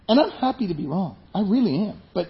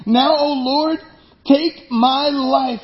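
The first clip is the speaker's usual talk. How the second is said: pleading prayer; 7 semitones higher, 4 dB louder, much slower than usual. Acted. Jonah's prayer read with feeling.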